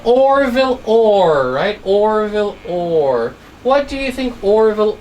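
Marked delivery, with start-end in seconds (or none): 0.0-1.5 "Orville Orr" stretched slowly and louder; slow drawn name. Shown as a demonstration. Teacher repeating "Orville Orr" slowly to pupils. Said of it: "So again". 1.8-3.3 "Orville Orr" said slowly, a little softer; slow quiet name. Shown as a demonstration. Teacher repeating "Orville Orr" slowly to pupils. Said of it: "So again".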